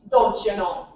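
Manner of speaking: long drawn O in know, Minnesota style; mild Minnesota accent. Shown as a demonstration. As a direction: stretch the O, don't you knooow. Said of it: "we elongate our O's".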